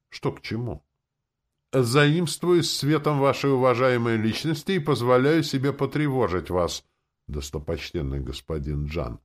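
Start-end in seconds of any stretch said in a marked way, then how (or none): 1.7-9.2 florid, bowing courtesy, starting higher and louder; a lightly voiced fawning official; ornate flattery. A narrator's reading. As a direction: lay on the flowery politeness. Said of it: "витиевато сказал один из чинов".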